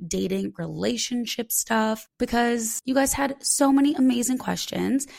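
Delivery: slightly husky, throat-cleared voice; talking through a frog in the throat. Real, not acted. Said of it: "I weirdly have, like, a frog in my throat".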